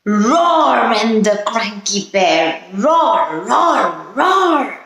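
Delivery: playful storybook roars; bear roar. Pretend. Teacher playing the cranky bear for children, mock roaring. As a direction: roar like a cartoon bear for kids. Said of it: "See, he's roaring".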